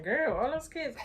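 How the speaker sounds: incredulous. Retold or imitated. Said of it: "somebody came up to me".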